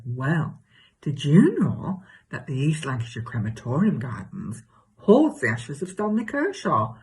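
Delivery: hammed-up chatty gossip with leaping pitch; exaggerated comic self. Telling Cheryl about her new neighbour, exaggerated comic gossip. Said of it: "do an exaggerated version of myself".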